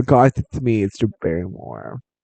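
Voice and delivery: friendly, familiar, warm tone. Showing how people do the actress's impression: Drew Barrymore impression. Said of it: "does a Drew Barrymore impression".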